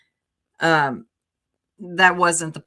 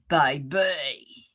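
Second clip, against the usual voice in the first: Rowena; 4 semitones lower than usual. Acted. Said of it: "Rowena's so easy to do".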